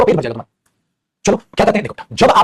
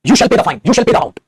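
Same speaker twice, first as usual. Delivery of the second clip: commanding; 3 semitones higher, 3 dB louder, much slower than usual. Shown as a demonstration. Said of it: "जब किसी को कोई compulsion कर दो ना".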